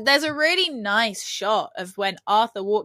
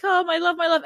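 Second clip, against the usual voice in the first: Vivian; 6 semitones higher than usual. Retold or imitated. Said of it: "Vivian being like".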